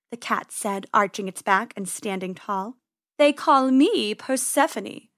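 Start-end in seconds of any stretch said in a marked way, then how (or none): 3.2-5.1 slow, silky cat voice. Acted. Cat boasting to the rabbits, slow and silky. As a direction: purr it out proudly.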